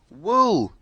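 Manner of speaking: high, loud bleat-like call; sheep's voice. Acted. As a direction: pop in with the missing word. Sheep calls out rhyme.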